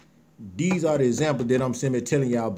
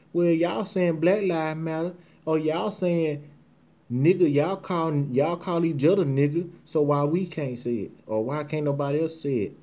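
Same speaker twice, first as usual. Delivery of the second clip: mock white voice; 3 semitones higher than usual. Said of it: "This what they saying".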